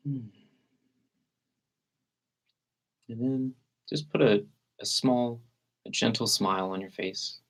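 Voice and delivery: calm meditation guide with long, unhurried pauses; guided meditation. Real, not acted. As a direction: gently lead listeners into relaxed breathing, leaving space between phrases.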